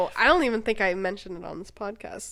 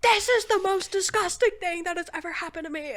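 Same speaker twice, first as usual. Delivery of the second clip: disgusted exclamation; 8 semitones higher, 5 dB louder than usual. Retold or imitated. Nauseated retelling of disgust.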